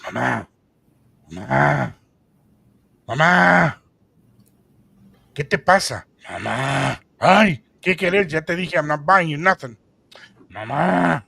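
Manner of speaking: put-on a pestering child begging his mom; whiny kid. Kid nagging mother in bakery.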